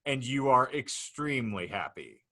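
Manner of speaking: deliberate, mock-grave narrator hitting key phrases hard; dramatic scenario reading. Real, not acted. Host unfolds the Canadian football future to laughing guests, dramatic narrator. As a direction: announce each absurd detail with ceremony. Reads out the hypothetical.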